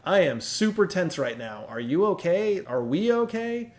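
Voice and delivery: mildly voiced tense, honest concern; anxious, open check-in. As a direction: let the worry show as you ask if things are okay. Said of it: "a limbic system expression".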